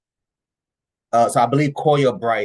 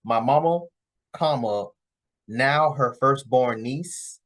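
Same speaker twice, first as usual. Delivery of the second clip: reading it out slowly, fixing the punctuation; slow corrected reading; 2 semitones higher, slower than usual. Retold or imitated. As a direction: spell it out slowly, with the comma. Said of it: "I think what she's trying to say is".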